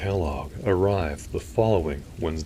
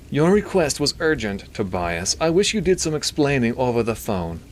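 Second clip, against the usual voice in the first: high, louder nasally would-be British doctor; Milton; 8 semitones higher, 5 dB louder than usual. A narrator's reading. Doctor wanting an explanation from the priest, nasally. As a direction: complain through the nose, pitched up. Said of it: "He had a nasally voice".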